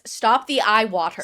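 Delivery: lightly voiced robot; stilted robot command; measured words, a hint of robot; robotic. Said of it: "he is talking like a robot".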